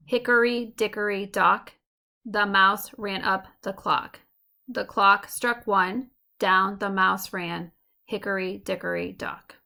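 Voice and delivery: "Hickory dickory dock" recited slowly, first syllables punched; sing-song dactylic beat. Shown as a demonstration. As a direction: chant "hickory dickory" like a nursery rhyme in DUM-da-da. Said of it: "results in a heavy sing-song beat".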